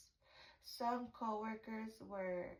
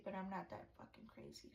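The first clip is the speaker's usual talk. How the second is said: whispered; 2 semitones lower, 8 dB quieter, faster than usual. Retold or imitated. Quoted plea, drops to whisper.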